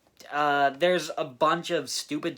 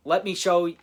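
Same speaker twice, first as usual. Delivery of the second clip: ghost voice; 5 semitones higher, 9 dB louder than usual. Retold or imitated. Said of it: "Frico says".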